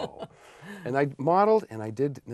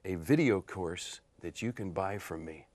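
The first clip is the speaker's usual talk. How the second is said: cheesy pitchman. Acted. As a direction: sell it like a cheesy seducer, hushing at the end. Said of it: "I play this cheesy guy".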